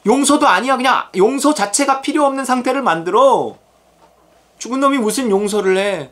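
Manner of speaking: high-pitched, emphatic acted orders; insistent command. God ordering the believer to forgive, insistent command.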